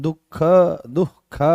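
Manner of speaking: "दुख" as duh-kha, split in two; correct visarga pronunciation. Shown as a demonstration. Teacher demonstrating the visarga, "दुख" broken as दुह-ख. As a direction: sound an h before the ख in "दुख". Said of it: "उच्चारण शुद्ध क्या है".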